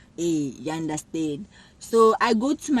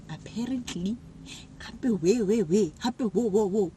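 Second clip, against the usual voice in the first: mocking echo; 4 dB quieter than usual. Mocking the girls' accusation.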